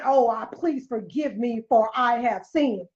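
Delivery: mock apology. Mocking what the hypocrite should say in church, hammed-up pleading. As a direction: ham up a fake churchy confession.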